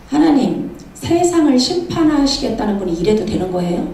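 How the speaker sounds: lightly acted urgent appeal to God; imitating an urgent challenge; urgent protest. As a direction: protest as if pressed for time, mildly dramatized. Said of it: "얼마나 급하면 이렇게 얘기해요".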